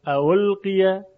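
ا القیه with an easy glide from a into u; tashil, softened hamza. Shown as a demonstration. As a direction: run the two opening vowels of ا القیه smoothly together. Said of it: "خیلی راحت تره".

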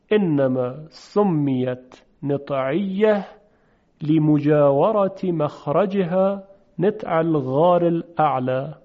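slow, measured reading of the Arabic text; slow Arabic recitation. Shown as a demonstration. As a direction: recite the book line word by word. Reads Arabic book quote.

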